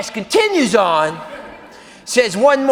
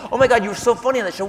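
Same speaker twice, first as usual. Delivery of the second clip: rushed, fast gushing praise; wife gushing fast over a sitcom actor; gushing fan wife; 3 semitones higher, much faster than usual. Retold or imitated. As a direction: spill it out fast like a thrilled fan.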